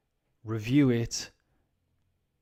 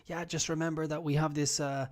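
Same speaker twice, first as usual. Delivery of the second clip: higher pushy sales voice; salesperson pitch; 4 semitones higher, faster than usual. Retold or imitated. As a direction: push the deal like a phone sales rep. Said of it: "telephone company".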